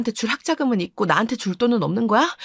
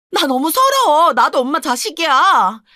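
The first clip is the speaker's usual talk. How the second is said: upset; 2 semitones higher, 3 dB louder than usual. Acted. Daughter protests unfair treatment.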